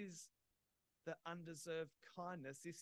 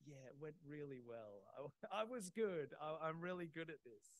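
quiet boast; 3 semitones lower than usual. Retold or imitated. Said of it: "the quiet boast".

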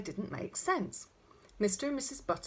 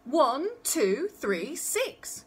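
put-on toddler yelling numbers in a temper; raised, higher, insistent count; furious yell; 6 semitones higher, 6 dB louder, much slower than usual. A narrator's reading. Connie insisting she is right, furious yell. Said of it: "yelled Connie furiously".

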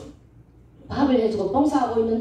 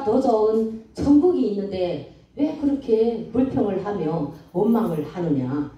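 calm, gentle. Retold or imitated. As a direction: soothe a complaining child calmly. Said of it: "이런 말씀을 잔잔하게 주시더라고요". (하나님이 잔잔하게 타이르는 낮고 느린 목소리)

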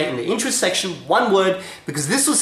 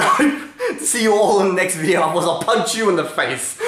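laughing. Real, not acted. Joking outro, laughing.

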